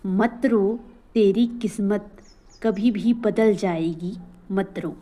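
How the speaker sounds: measured motivational couplets with pauses; verse recitation. Acted. Teacher encouraging learners not to cry, recited verse. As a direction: recite it phrase by phrase, stretching some lines slowly.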